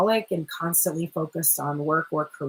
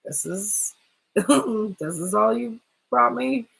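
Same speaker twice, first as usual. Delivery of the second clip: unimpressed feminine; much slower than usual. Acted. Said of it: "this feminine is like".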